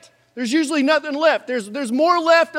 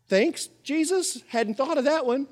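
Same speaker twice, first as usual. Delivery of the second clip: sarcastic thanks; 3 semitones higher, 4 dB quieter than usual. Acted. Sarcastic reply to Jesus.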